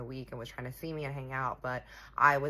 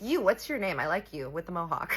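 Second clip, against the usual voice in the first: higher-pitched bold call to a stranger; playful tipsy come-on; tipsy flirty call-out; 4 semitones higher, 4 dB louder than usual. Retold or imitated. Tipsy, calling out to a man.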